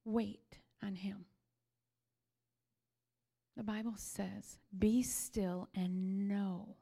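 soft unvoiced whisper, slow. Real, not acted. Preacher urging the congregation to wait, whispered. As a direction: breathe the words like a secret. Quiet close of sermon.

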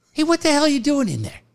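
high, fast, annoyed demand; mock Ted yelling. Ted catching him booking in the booth, imitated annoyed yell. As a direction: bark it like an irritated old broadcaster.

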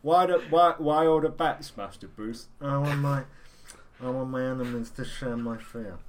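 mumbled, halting actor impression; Marlon Brando as Batman. Riffing on a miscast Batman, mumbled impression. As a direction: mumble the superhero's lines like a rambling film legend. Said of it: "Apocalypse Now era Marlon Brando".

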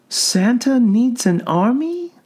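soothing clinical questioning; calm doctor voice. A narrator's reading. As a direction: gently probe a patient.

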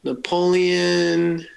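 put-on slow, drawn-out French-accented Napoleon. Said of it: "what's my guy's name".

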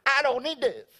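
high, showy prayer boast, drawn out at the end; hammed-up, high-pitched mighty pray-er; confident prayer warrior. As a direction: play a believer boasting of long prayers. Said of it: "maybe there are some people here today".

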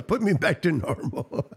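mock-calm imitation of co-host; imitated calm. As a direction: quote him softly, as if nothing happened. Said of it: "He just said it so calmly".

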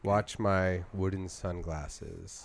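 slow, soft hypnotic command; slow hypnotist voice. Pretend. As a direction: lull him like a stage hypnotist. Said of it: "watch me".

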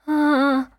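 high groan of displeasure; dismayed moan. A narrator's reading. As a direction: let out a high, joyless "ah". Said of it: "jęknęła starsza dama".

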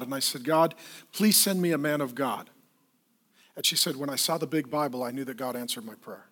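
a woman in an emergency room hushing a confession to a pastor; tearful confession. Retold or imitated. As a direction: confide it quietly, nearly breaking. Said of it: "she gets very emotional, starts crying".

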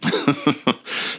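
short amused chuckle; a little laugh before reading on. Real, not acted. About to read a Sophia Loren quote, chuckling.

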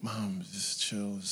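slow, soft groggy plea to mom; lightly acted drowsy protest; sleepy child protest. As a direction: mumble it half asleep. Half-asleep child protests to mother.

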